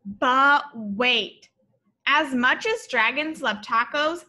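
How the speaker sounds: lively, sing-song storybook read-aloud; bright read-aloud for little kids; reading to children. A narrator's reading. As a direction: read it like a picture book to a class.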